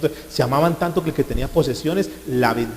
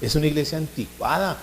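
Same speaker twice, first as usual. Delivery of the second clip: softer mock complaint, pitched up at first; imitated objectors; 2 semitones higher, 5 dB quieter than usual. Churchgoers object to the pastor about old churches, mock complaining. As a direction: mimic churchgoers grumbling to their pastor. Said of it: "muchos digan hoy".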